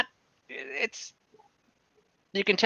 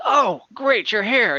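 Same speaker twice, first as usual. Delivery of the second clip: high, loud, eager dwarf voice; bursting with delight at the arrivals; excited dwarf greeting; 8 semitones higher, 5 dB louder, slower than usual. Acted. Dwarf brewer greeting the party, high and eager. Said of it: "looks up at you and goes".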